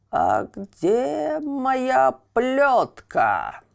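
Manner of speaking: slow, drawn-out villain's call; mock-menacing shout for the whip; shouted demand. A narrator's reading. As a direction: bellow it out slowly as the puppet master. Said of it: "закричал Карабас-Барабас".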